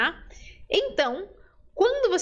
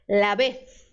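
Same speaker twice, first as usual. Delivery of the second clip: Spanish ceceo; 4 semitones lower, 3 dB louder than usual. Shown as a demonstration. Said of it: "fenômeno linguístico chamado ceceo".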